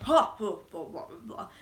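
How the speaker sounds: rhythmic war-chant grunts, petering out; half-hearted battle chant; imitated chant. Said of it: "they did a chant".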